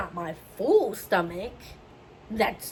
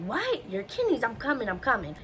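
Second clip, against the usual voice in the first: alarmed mother; 3 semitones higher than usual. Retold or imitated. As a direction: retell Mom's urgent surprise.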